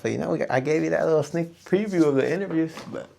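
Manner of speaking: ordinary talk, nothing marked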